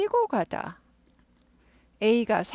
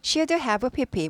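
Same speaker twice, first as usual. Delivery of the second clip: Should have P P said very slowly; drawn-out formula, should stressed; slow demo read; 3 semitones higher, much slower than usual. Shown as a demonstration. Teacher recites the grammar formula slowly. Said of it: "그러니까 뭐라고요?".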